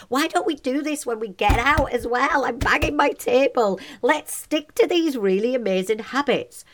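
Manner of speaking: rally listeners with real passion; passionate. Real, not acted. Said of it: "tell by my voice I'm so passionate".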